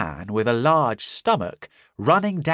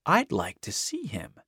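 whisper; 3 semitones higher, 5 dB quieter than usual. Acted. The American whispering near the door. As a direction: whisper it calmly, daring. American facing invisible man.

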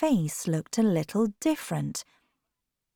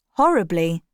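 angry; 4 dB louder than usual. Acted. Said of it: "he replied angrily".

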